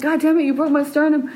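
mock angry complaint. Retold angry complaint to husband.

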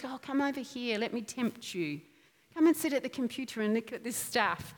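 soft coaxing whisper of temptation; tempting hag voice. Pretend. Old hag tempting the listener to the computer, soft and coaxing. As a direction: lure them in softly like a hag. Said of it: "that old hag comes and says".

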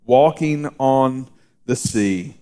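slow, deliberate reading of the verse; scripture reading. Acted. Pastor reading scripture to the congregation, slow and deliberate. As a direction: read the gospel slowly and solemnly.

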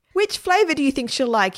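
put-on high, eager boy asking; little boy. A narrator's reading. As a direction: ask anxiously like a small boy. Boy asks his mum.

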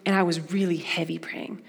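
hushed, breathy whisper; soft whisper of heavy prayer; whispered praying. Retold or imitated. Prayer walk around the pond.

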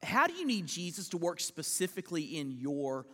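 low, quiet appeal to the listeners; hushed pastoral question; soft heartfelt question. Real, not acted. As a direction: ask it gently and let it sink in. Preacher puts the question to congregation.

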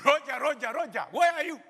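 loud mock radio call shouting for Roger; playful shouted radio call. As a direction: bark it like a soldier on the field radio. Soldier radio call in sermon.

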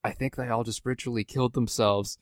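softly voiced mock whisper; quiet aside, still voiced; retold whisper. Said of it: "I lean over and whisper to Clayton".

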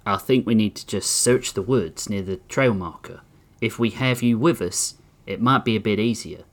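small-town police chief pleading his case; lightly voiced sheriff. Crawford, voiced lower.

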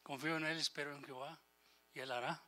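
the spirit answering the flesh, softly trusting; calm trusting voice of the spirit. Acted. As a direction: hush down and trust God gently.

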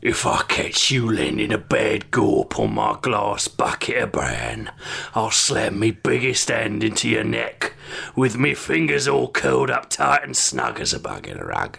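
put-on Cockney accent with creaky fry; gruff Cockney threat in fry; Cockney vocal fry. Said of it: "classic Cockney vocal fry".

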